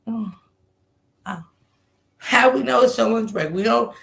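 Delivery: ordinary talk, nothing marked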